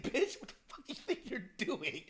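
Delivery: amused retelling of a cheeky scolding; playful mock scolding. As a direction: mimic a coworker's teasing fake outrage. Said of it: "it was like the way he said".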